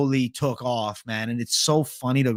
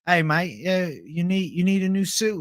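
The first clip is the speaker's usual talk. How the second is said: put-on Australian accent, pitched up toward the end; 3 semitones higher than usual. Salesman trolling a store customer about a new suit, mock Australian accent. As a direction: imitate a trolling Aussie shop assistant. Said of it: "talking in an accent, like, I was, like, Australian".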